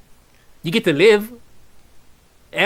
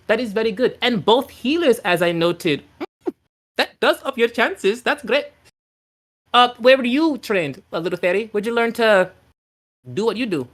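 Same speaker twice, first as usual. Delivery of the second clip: fairy queen voice; 5 semitones higher than usual. Acted. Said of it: "and she goes".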